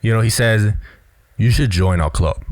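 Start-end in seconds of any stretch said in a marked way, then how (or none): 1.4-2.4 "club" going down at the end, as a firm statement; falling statement ending. Retold or imitated. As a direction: let "club" drop to close the sentence. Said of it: "he's going down at the end of the sentence".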